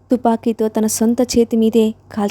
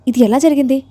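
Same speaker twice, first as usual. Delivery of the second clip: a touch of panic, slightly raised and higher; anxious question; 3 semitones higher, 3 dB louder than usual. Acted. Jai asks how his brother got hurt, mildly anxious. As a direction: ask in a worried rush. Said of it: "కంగారుగా అడుగుతూ".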